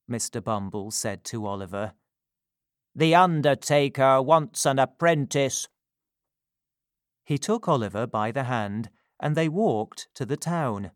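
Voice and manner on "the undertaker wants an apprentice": pompous beadle. Acted. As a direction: order the boy about. Bumble tells Oliver.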